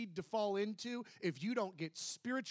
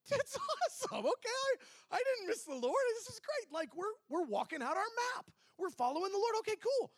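much higher, laughing with delight; excited; 13 semitones higher than usual. Retold or imitated. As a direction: bubble over with relief and joy. Thrilled he didn't miss God.

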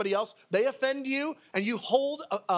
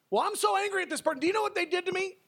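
much higher, fast, indignant complaining; mock offended person; 10 semitones higher, faster than usual. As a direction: play a self-pitying whiner, hammed up. Mocks an offended churchgoer.

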